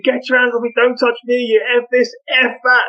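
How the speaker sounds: hammed-up angry kids; mock angry kids. Kids storming out at the headmaster, mock shouting. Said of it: "they all come out going".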